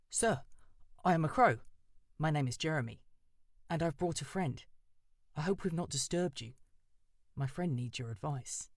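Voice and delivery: a nervous bird calling up politely; eager crow Jeremy. Acted. Crow Jeremy addresses the owl.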